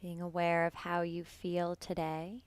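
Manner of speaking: calm, unhurried meditation voice with long pauses; guided meditation. Real, not acted. Yoga teacher settling students into breath awareness, guided meditation. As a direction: guide them gently into the breath, leaving space between phrases.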